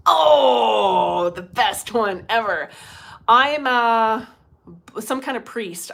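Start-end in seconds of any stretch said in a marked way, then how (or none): 0.1-2.7 laughing. Real, not acted. Laughing at pinned comment.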